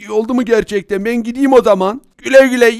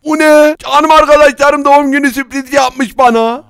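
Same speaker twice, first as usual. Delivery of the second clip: raised, excited exclamation; thrilled, voice pitched up; delighted surprise; 3 semitones higher, 4 dB louder than usual. Acted. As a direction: gush with happy amazement. Discovers the birthday surprise.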